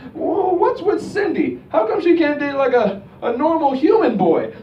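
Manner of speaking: put-on a crotchety old man voice. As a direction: sneer at the cyborg date. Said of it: "and I'm like".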